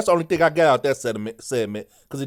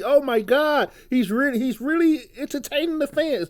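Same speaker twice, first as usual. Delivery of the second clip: much higher, squealing fake hype; mocking excited fan; 6 semitones higher than usual. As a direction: ham up a gushing fan who is thrilled by one curse word. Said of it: "Why do W W E think".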